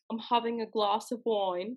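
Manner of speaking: put-on British; attempted British accent. Shown as a demonstration. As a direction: have another careful go in British. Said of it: "Oh, excuse me".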